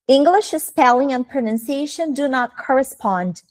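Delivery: slow, careful repeat in English; quoted teacher's line. Retold or imitated. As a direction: say it slowly as one connected sentence. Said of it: "Ela falou assim, ó".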